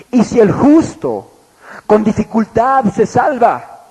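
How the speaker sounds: slow, measured reading of the verse; scripture reading. Shown as a demonstration. Preacher reading the verse to his congregation, slow and measured. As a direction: read the verse out deliberately. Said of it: "marca la diferencia y dice".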